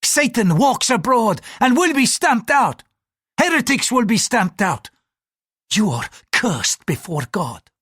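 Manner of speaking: damn him like a fire-and-brimstone preacher; raging curse, measured out word by word; furious priest. A narrator's reading. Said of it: "the priest flared".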